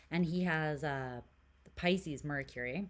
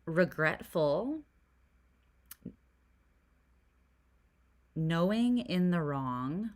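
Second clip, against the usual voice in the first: reading card keywords; 4 dB louder than usual. Real, not acted. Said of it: "this card says".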